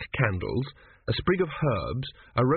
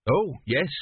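mildly hesitant, slightly higher reply; 4 semitones higher than usual. A narrator's reading. Boy pressed about his god, hesitant. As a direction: answer with a touch of hesitation. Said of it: "said Tepic hesitantly".

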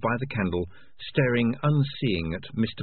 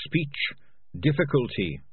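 higher, innocent rat voice; higher-pitched little rat; earnest rat; 7 semitones higher than usual. Acted. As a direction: state it innocently as a small rat. Beans says it before Morris repeats.

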